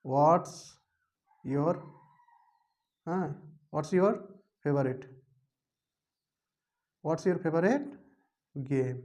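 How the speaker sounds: each word spaced out for pronunciation; word-by-word teaching read; slow pronunciation model. Shown as a demonstration. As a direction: say "What's your favorite game?" slowly, piece by piece. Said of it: "এটা উচ্চারণ করবো কি".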